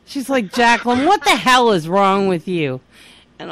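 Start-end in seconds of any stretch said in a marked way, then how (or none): 0.5-2.8 mildly angry mock scolding; retold exasperated mother. Mother to daughter crawling across carpet, exasperated scolding. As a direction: demand it, fed up with the theatrics.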